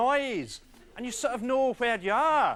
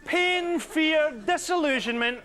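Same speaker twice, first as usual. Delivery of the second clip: high, loud, slow Wookiee howl; Chewbacca impression; 7 semitones higher, 5 dB louder, slower than usual. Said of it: "Chewbacca goes".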